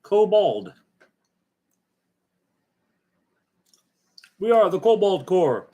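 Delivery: high squeaky kobold chant. Acted. Proclaims in a creature voice.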